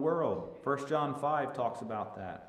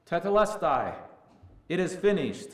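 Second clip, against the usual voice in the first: raised voice imitating a shout; retold shout; 4 semitones higher, 5 dB louder than usual. Preacher quotes Jesus shouting from the cross, retold shout. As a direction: lift pitch and volume, a restrained preacher's shout. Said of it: "when Jesus shouted".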